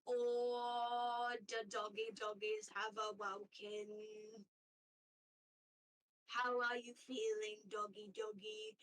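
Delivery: lightly voiced cooing otter, childlike; a hint of a creepy, doting otter; odd otter voice. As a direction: coo at the captive dogs like a strange pet owner.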